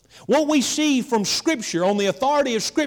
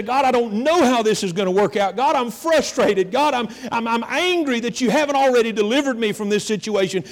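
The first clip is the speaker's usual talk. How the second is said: acted frustrated prayer, raised a touch; crying out with raw emotion. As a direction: plead with God, mildly worked up. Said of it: "cry out unto God with raw emotion".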